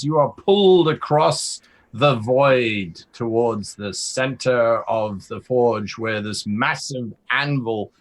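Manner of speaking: dramatic scene setting, building to a reveal; emphatic fantasy narration; game master narration. Acted. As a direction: sweep the player toward the reveal.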